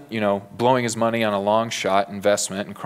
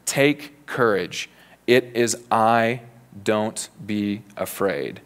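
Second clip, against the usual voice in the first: slow, calm "Take courage", steady and sincere; calm reassurance; slower than usual. Acted. Jesus calms frightened disciples, slow and steady. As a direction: say it slowly, a steady comfort. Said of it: "No, what did he say?".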